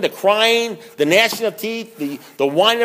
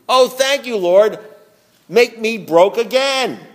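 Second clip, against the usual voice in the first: slow, drawn-out mock prayer; pleading with the Lord to be made broke, slow mock prayer; 4 semitones higher, slower than usual. Slow mock prayer to God.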